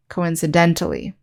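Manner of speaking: "coincidentally" stressed on DEN, as in coincidental. Shown as a demonstration. Teacher showing the adverb form, stress on DEN in "coincidentally". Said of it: "the stress on the same syllable".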